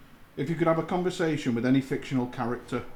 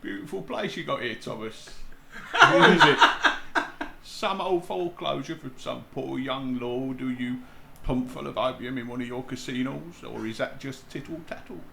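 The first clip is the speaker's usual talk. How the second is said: Alfie Solomons impression; 4 dB louder than usual. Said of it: "I can do Alfie Solomon".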